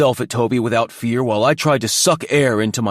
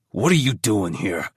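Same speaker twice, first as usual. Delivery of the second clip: through gritted teeth; 2 semitones lower than usual. A narrator's reading. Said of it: "through gritted teeth".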